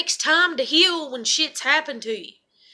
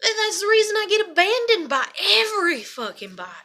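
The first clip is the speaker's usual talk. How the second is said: venting about abandonment, higher-pitched outburst; upset outburst; 5 semitones higher than usual. Real, not acted. Vlogger venting about being abandoned by everybody, upset outburst. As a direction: pour out the hurt, voice raised in pitch.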